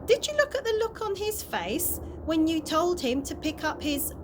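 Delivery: exclaimed. A narrator's reading. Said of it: "exclaimed Mister Stink".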